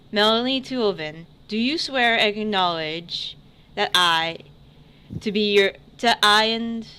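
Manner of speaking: formal ceremonial herald voice; herald proclamation. Acted. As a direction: read it out like a court herald. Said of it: "So, he's the herald".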